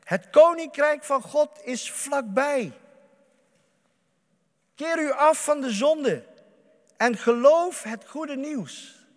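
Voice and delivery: loud, slow proclamation by Jesus; calling out. Acted. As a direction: proclaim it slowly and loudly, like Jesus calling to the crowd. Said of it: "riep hij".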